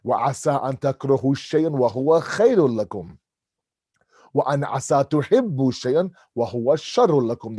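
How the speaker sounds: quick chanted Arabic verse; تلاوة سريعة; Quran recitation. Acted. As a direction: recite the verse fast and rhythmic.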